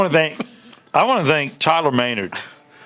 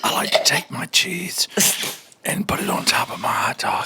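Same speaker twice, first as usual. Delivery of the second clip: ASMR whisper. Pretend. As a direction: whisper it close to the mic. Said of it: "our A S M R".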